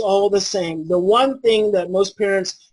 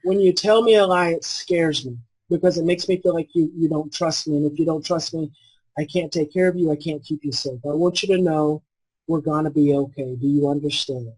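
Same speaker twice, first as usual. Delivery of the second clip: soft reassurance; 2 semitones lower than usual. Shown as a demonstration. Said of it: "you come back and you say".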